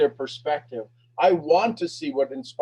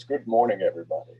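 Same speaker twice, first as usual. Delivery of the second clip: a hint of a lower radio announcer; 6 semitones lower, faster than usual. Ralph greeting everybody like a radio host, lightly imitated. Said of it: "He's got that radio voice".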